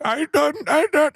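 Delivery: put-on high, strained stab at an Indian accent; failed Indian accent. Comic botching an Indian accent for the four-year-old fan, high and strained. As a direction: try an Indian accent and give up halfway. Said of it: "I'm so bad at it".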